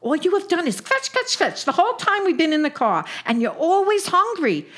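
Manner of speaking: nagging Brooklyn yenta voice; old Jewish aunt scolding; yiddish accent. Acted. Sadie scolds Sophie in car.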